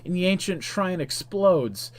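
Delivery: lively game-story narrator; dramatic story narration. A narrator's reading. Narrator tells player of the exploding shrine, dramatic narration. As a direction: narrate the climax with punchy emphasis.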